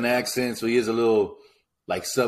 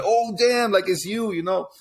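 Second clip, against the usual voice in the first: jumping way up high in pitch, retold cousin's surprise; surprised greeting; 10 semitones higher, slower than usual. Cousin spotting him at grandma's, surprised high exclamation. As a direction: squeal it like spotting someone unexpected.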